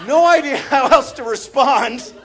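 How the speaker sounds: loud, high exasperation; worked-up comic protest; exasperated outburst. Acted. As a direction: shout it helplessly. Bursts out in exasperation.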